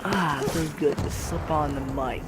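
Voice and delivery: soft, breathy whisper into the mic; contented whisper; whispered relief. Real, not acted. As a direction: sigh it out close to the mic. New speaker settles onto mic.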